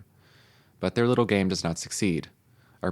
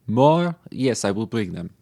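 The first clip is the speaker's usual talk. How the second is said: waiter's bright, loud misunderstanding; eager waiter; 2 semitones higher, 4 dB louder, slower than usual. Acted. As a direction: chirp it back like a keen waiter. French waiter answers wrongly.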